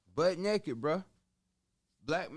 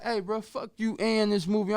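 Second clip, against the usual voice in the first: much higher, louder, cussing him off; retold angry outburst; 8 semitones higher, 8 dB louder than usual. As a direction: cut the partner off in anger. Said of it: "I'm like".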